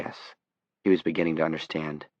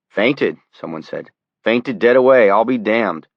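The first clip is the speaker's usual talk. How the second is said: surprised; 4 semitones higher, 7 dB louder than usual. A narrator's reading. Bystander reacting to faint.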